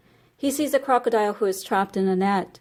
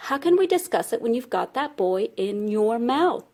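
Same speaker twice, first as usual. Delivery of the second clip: mildly indignant storybook rabbit; lightly acted protest, rising at the end; exasperated questioning; 2 semitones higher than usual. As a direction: reason with a touch of disbelief, pitch swooping up. Rabbit reasons with the crocodile.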